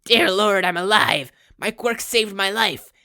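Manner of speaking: very high, loud joyous cries; ecstatic relief. A narrator's reading. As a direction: shout with stunned joy at surviving. Cult leader survives, overjoyed.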